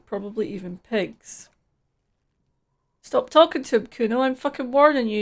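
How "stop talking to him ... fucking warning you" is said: angry warning. Acted. Kuno S warning Kuno.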